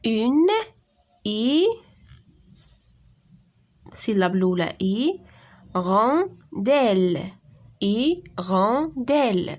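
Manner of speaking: Une i, rondelle, puis hirondelle, chaque syllabe lente et forte; découpage syllabique. Shown as a demonstration. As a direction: segmenter hirondelle en i-ron-delle avant de la dire entière. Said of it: "Donc, il y a trois syllabes". (تقطيع hirondelle إلى مقاطع بصوت عال وبطيء)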